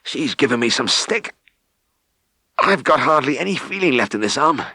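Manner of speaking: a worn-out farmer rubbing his dead arm; spent farmer. Acted. Exhausted farmer complains.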